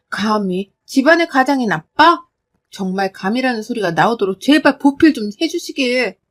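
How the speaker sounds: sarcastic, rising on 아빠; mocking echo. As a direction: throw 감히 집안의 가장인 아빠 back with scorn. Daughter mocks father's phrase.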